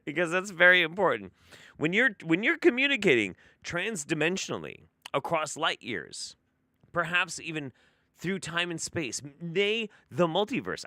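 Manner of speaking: lofty British pomp poking fun at the channeler; mock posh British. Streamer mocking the channeler's Queen's English in grand British.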